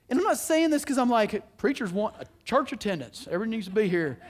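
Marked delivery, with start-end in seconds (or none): 1.6-4.2 a touch of Southern preacher twang; Southern accent. Real, not acted. Preacher joking about church attendance, lightly Southern. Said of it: "I just got Southern at that moment".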